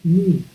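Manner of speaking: ru said short and firm, rolled into breath; first syllable ru. Shown as a demonstration. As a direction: voice the syllable ru like wind. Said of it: "the first syllable".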